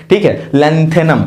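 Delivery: lanthanum said slowly as "lenthenum"; slow clear lanthanum; pronounce carefully. Shown as a demonstration. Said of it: "ऐसे बोलना".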